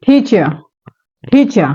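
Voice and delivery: "teacher" with a breathy aspirated ঠ-like T; T like Bengali ঠ. Shown as a demonstration. Teacher demonstrates "teacher" with an aspirated T. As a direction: start "teacher" with a strong puff of air on the T. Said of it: "let's practice the correct pronunciation".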